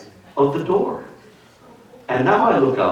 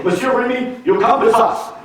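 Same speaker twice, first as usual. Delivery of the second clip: put-on high French-accented order; French-accented police, high and firm; French gendarmes; 10 semitones higher than usual. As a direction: command him like a Belgian gendarme. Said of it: "And they go".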